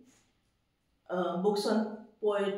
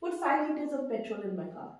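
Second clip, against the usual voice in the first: slow model sentence; 4 dB quieter, slower than usual. Shown as a demonstration. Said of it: "How do we pronounce this word?".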